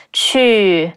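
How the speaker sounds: 去 drawn out a little longer; lengthened ending. Shown as a demonstration. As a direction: hold the end of 去. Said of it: "make the ending sound a little bit longer".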